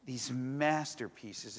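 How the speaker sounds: "masterpieces" stretched slowly; slow emphasis. Shown as a demonstration. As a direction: drag out "these masterpieces," slowly. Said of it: "That we are these".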